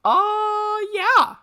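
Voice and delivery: recommending the movie, emphatic and loud; emphatic yes. Real, not acted. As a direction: blurt it out with total conviction. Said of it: "Pretty emphatically".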